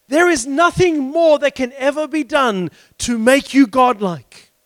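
firm, lifted preacher's proclamation; emphatic preaching. Acted. Preacher telling listeners they are godlike, emphatic preaching. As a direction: declare it with conviction.

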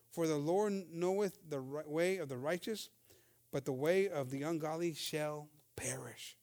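a preacher reading psalm verses aloud, slowly; scripture reading. Acted. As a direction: proclaim the verse with weight.

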